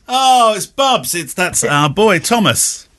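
high, slow "oh" of recognition; delighted surprise. Real, not acted. Father recognising his son's postcard, high and slow with delight.

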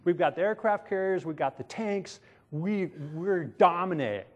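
lightly voiced propaganda swagger; boastful media promotion. Egypt's media touts its military might, mildly hammed-up boasting. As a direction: hype it up a little like a proud superpower. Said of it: "it's promotion, it's, Egypt's media is".

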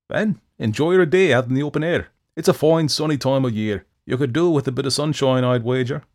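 loud, teasing, smug taunt; mocking. A narrator's reading. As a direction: gloat at the trapped devil. Jack mocking trapped devil.

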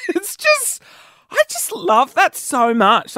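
high, laughter-squeezed voice; giggly delight. Real, not acted. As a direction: gush slowly while fighting off laughter. Cracked up by car horns.

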